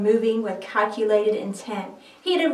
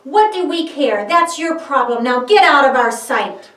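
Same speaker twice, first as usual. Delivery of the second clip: louder, cold and dismissive; scornful rejection; 2 semitones higher, 7 dB louder than usual. Acted. Priests sending Judas away, louder scornful rejection. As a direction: shove him out with words.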